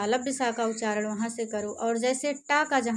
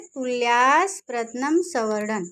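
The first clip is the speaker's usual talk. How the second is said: recited sutra; 3 dB louder than usual. Shown as a demonstration. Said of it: "किसे कहते हैं?".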